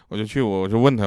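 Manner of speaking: ordinary delivery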